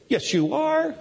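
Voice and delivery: put-on high-pitched insistent kid retort; imitated arguing child. Son arguing back at dad, high mock child voice. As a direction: contradict like a small boy.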